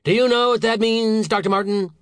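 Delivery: very high, loud demand; angry snap. A narrator's reading. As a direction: challenge him in outrage. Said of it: "snapped Saint George".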